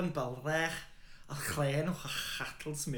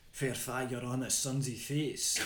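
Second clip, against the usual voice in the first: poem recital; much slower than usual. Acted. Quotes poem's opening line.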